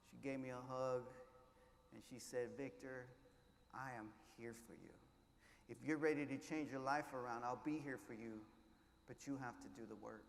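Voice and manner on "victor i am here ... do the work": soft, hushed reassurance, a hint of the teacher; tender teacher. Teacher softly tells grieving Victor she's there, hushed and tender. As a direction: quietly promise to stand by him. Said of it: "I heard her, just the way you heard her".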